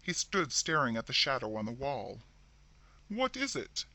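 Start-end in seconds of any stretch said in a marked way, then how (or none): 3.1-3.9 strange voice. A narrator's reading. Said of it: "he demanded in a strange voice".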